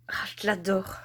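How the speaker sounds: whispered, smitten; delighted whisper. Real, not acted. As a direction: hush it like a secret crush. Admiring the owl canvas.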